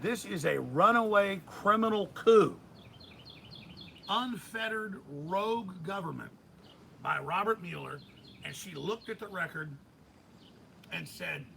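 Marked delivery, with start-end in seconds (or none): 0.0-8.0 outraged quote. Retold or imitated. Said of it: "And she said".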